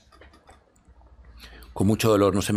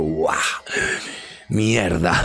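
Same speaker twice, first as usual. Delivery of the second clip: loud gasped exclamation, then a curse; acted-out stunned return; retold shocked awakening; 3 dB louder, much slower than usual. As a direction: come to with a jolt and swear. Acting out waking with shock.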